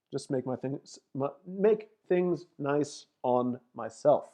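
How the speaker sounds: stumbling softly over the words; tongue-tied. Real, not acted. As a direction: trip on the phrase, restart, then get it out. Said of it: "Goodness, I'm getting tongue-tied".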